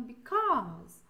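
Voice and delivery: "because" with the second syllable stressed and drawn out. Shown as a demonstration. Teacher shows students one of two intonations, "because" stressed on its last syllable. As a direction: lean on the end of "because". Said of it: "com essas duas entonações".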